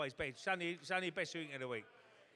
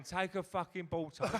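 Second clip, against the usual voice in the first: pub shout; 5 semitones higher, 6 dB louder than usual. Retold or imitated. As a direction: yell at the screen with your mates. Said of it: "We're in the pub going".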